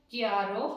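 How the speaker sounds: क्यारो with a clear ky sound; teaching pronunciation. Shown as a demonstration. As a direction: say क्यारो as kyaro, ky first. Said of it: "की की ध्वनि आ गई". (क्यारो का साफ उच्चारण)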